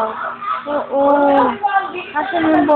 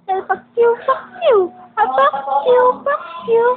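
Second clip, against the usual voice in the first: put-on much higher, sing-song coo at the baby; high baby talk; 9 semitones higher than usual. Parent cooing to the baby in a much higher sing-song voice. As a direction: coo it way up high like talking to an infant.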